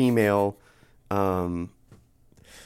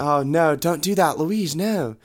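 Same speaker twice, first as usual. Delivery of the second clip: higher, put-on pleading; mock pleading; 4 semitones higher, slower than usual. Todd begs Louise not to leave, higher pleading. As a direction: plead with a touch of panic.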